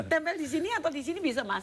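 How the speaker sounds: laughing through the words, quick and high; amused, rushed laughing question. Real, not acted. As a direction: chuckle as you place the patch. Doctor laughs while placing patch.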